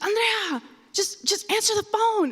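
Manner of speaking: high-pitched mock scolding; exasperated mom. Mom ordering daughter back to phone, high exasperated scolding.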